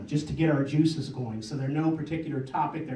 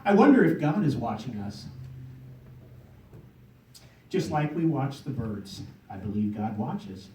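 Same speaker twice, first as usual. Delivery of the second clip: measured spoken poem with pauses; poem recitation. Acted. Poet to audience about watching birds, recited poem. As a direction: open lines firmly, let endings fall.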